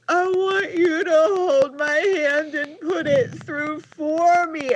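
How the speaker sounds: high, slow mimicked whine; tantruming child. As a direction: draw it out like a wailing kid. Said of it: "starts having a tantrum all over again".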